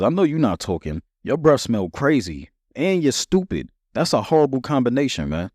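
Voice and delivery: lightly voiced kid talking trash; kid insult. Kid brother trades insults.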